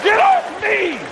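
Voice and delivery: jerk away in mock disgust; startled guy. Comic voicing a straight guy after a hand bump, startled.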